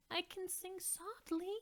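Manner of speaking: high, hushed pleading voice; softly pleading. Acted. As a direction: promise it gently. Dolores pleads to sing softly.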